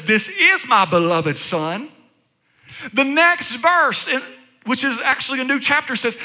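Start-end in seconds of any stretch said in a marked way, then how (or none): 0.0-1.9 lower, slow, solemn pronouncement; voice of God. Acted. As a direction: speak slowly as the Father blessing his son. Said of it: "The Lord just says".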